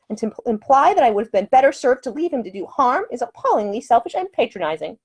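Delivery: a proper lady, lightly voiced, scolding; high-voiced prim woman, firm and offended; indignant lady. Woman scolds gentleman aboard train.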